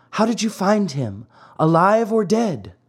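high, anxious fairy question. Acted. Fairy asks the falcon.

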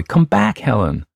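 high, loud call to a runaway. A narrator's reading. Someone calls Helen back to the circle, calling out. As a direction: call her back across the room.

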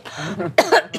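sudden coughing fit; choking cough. Real, not acted. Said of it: "I'm choking to death".

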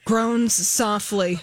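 dramatic caption reading. Acted. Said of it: "here are some of the closed captions".

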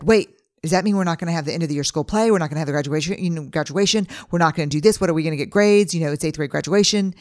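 put-on upset teen. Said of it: "my fourteen-year-old who said".

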